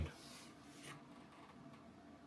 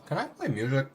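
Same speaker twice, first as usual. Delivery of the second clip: quick question; 5 semitones higher, 4 dB louder than usual. Real, not acted. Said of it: "I mean, can I play music on".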